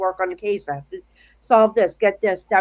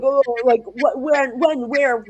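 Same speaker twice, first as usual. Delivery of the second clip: louder, mildly frantic retelling; mock a mom firing off urgent questions; frantic mom mode; 2 semitones higher, 4 dB louder, slower than usual. Mom demanding when and where, mildly frantic. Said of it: "now I'm going into mom mode".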